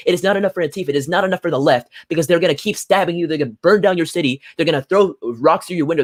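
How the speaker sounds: ranting at viewers about violence after the election; angry rant. Real, not acted. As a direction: hammer each line harder in real outrage. Furious rant about stabbings.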